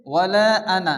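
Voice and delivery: ওয়ালা আনা read together with আনা short and unstretched; joined reading. Shown as a demonstration. Teacher demonstrating reading the words connected. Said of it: "শুধু এই আনা পড়তে হবে".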